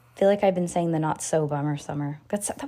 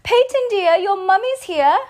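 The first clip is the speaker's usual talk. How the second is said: much higher, louder, slow British call; mock British mum call; 12 semitones higher, 6 dB louder than usual. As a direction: sing out like a posh mum at pickup. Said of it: "I was like".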